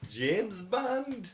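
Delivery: mock Liverpool accent; mimicked terrible accent. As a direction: mimic a badly faked Scouse accent. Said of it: "a really terrible accent".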